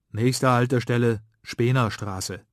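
slow, loud announcer call; tram announcement. Acted. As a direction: announce the stop like a tram speaker. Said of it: "tönt die Ansage".

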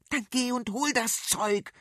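high, sharp yelled order; high exasperated yell; impatient shout. Acted. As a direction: bark it at her brother. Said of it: "schrie Adela".

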